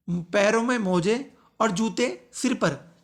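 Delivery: slow, "जूते सिर पर" grouped as one phrase; misplaced pause. Shown as a demonstration. Teacher repeating the spoiled example, slow with misplaced grouping. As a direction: break after मोजे, run "जूते सिर पर" together. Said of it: "सिर्फ विराम चिन्ह इधर उधर करने से".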